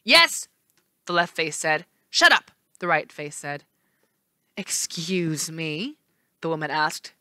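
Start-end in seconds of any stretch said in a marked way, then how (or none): 0.0-0.5 contrary. Acted. Left face contrary. 2.1-2.5 snapping. Acted. Right face snaps. 4.6-6.0 cold. Acted. Lady offended.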